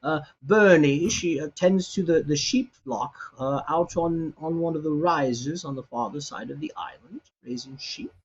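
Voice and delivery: a hint of a chatty old cook; old cook Albert. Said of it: "he looks at you and goes".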